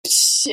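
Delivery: imitated splashy "psh"; hissed little explosion; burst sound effect. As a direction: make a quick bursting noise. Imitates body bursting into tears.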